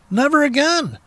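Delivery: mock dramatic cry. Mocking dramatic exclamation.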